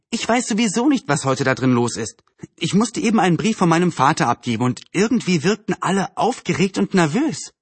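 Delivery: put-on slightly lifted girl's voice, puzzled; lightly voiced Anne, puzzled. Anne tells the neighbour about the town hall, puzzled. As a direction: lightly play a girl sharing news.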